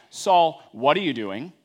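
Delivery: sharp rebuke. Shown as a demonstration. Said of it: "it's not".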